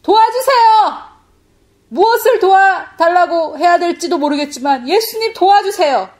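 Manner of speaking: loud, high pleading shout; full-force cry of prayer. Retold or imitated. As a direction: shout desperately to Jesus for help. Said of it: "부르짖었습니다".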